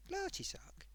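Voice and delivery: whispered name, breathy and worried; hushed whisper. Retold or imitated. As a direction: whisper it like you've spotted something alarming. Moira discovers moving tea bags.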